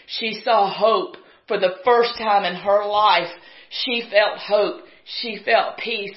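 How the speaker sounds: each short phrase drawn out slowly and pressed; slow emphatic preaching. Real, not acted. Preacher telling the church of her hope, slow and emphatic. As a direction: lay every word down slowly for weight.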